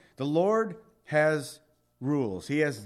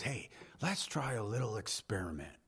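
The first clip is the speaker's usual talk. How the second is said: sly Satan; 5 semitones lower, 10 dB quieter than usual. Acted. Satan proposing experiment to God.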